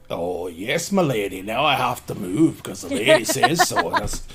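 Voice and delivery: mock deference turning to griping; sarcastic grumble. Tuck griping about being moved for the lady, sarcastic. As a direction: grumble sarcastically as if put upon.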